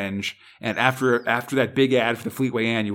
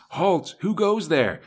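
sharp sentry challenge; alarm shout; 6 semitones higher, slower than usual. Acted. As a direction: bark it like a guard on watch. Guard challenges intruder at night.

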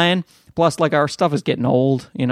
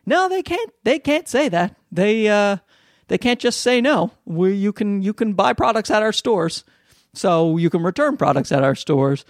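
high-pitched imitation of head office; mock disbelief; 6 semitones higher than usual. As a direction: play an official protesting in disbelief. Acts out head office's indignant reply.

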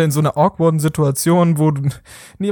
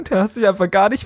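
laughing Lisa; 3 semitones higher than usual. Pretend. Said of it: "S1 as Lisa, laughing".

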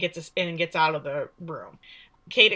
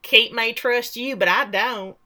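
suspicious mother; 3 semitones higher, 6 dB louder than usual. Retold or imitated. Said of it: "She's like".

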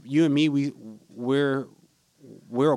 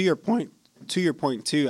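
voice cracking; 3 semitones higher than usual. Real, not acted. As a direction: voice cracks mid-phrase. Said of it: "I don't know why my voice just cracked".

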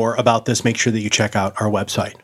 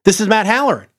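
booming motivational speech; 3 semitones higher than usual. Acted. Podcast outro sign-off.

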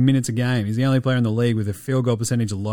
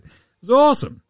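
excited; 11 semitones higher, 5 dB louder, faster than usual. Real, not acted. Crowd erupted excitement.

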